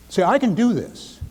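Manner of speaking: emotional affirmation. Shown as a demonstration. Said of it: "Put your emotions into the positive energy".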